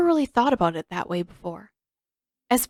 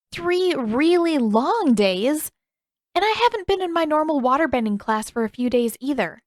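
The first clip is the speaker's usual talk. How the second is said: lightly voiced young woman, whining for fun; 6 semitones higher, 4 dB louder than usual. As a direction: stretch the words out in a higher, teasing plea. Katara protesting.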